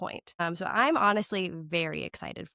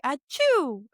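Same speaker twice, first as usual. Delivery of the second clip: imitated sneeze, a little higher; mock sneeze; 5 semitones higher, 3 dB louder than usual. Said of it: "went like".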